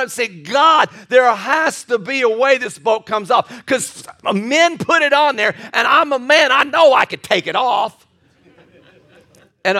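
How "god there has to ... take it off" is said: mock desperate prayer at the car; retold pleading prayer. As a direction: beg God to loosen the bolt. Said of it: "I'm crying to God".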